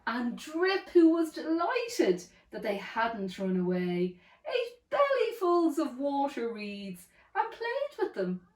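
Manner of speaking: lively, rhythmic storybook reading; children's story narration. A narrator's reading. Storyteller reads a dinosaur tale to a child, lively narration. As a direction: read it as a rhyming picture book.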